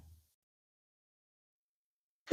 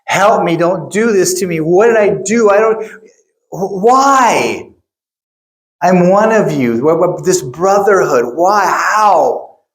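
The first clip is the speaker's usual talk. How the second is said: scared pleading; 5 semitones higher than usual. Retold or imitated. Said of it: "I see him being so scared, screaming".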